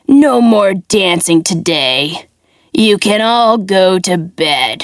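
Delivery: low, slow, worn-out villain; tired puppet master. Acted. Weary puppet master sends everyone to bed, low and slow. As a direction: let the fight drain out, slow and low.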